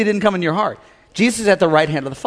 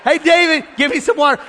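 higher, calling out to David; dad calling son; 6 semitones higher than usual. Retold or imitated. Dad calling son David to turn on TV. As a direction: call the boy over like a dad. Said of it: "My dad said".

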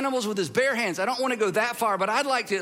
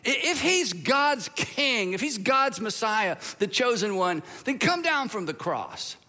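drawn-out mocking taunt, higher at the start; sneering; 4 semitones higher, slower than usual. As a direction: sneer it like a scornful ruler. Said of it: "the rulers sneered at him".

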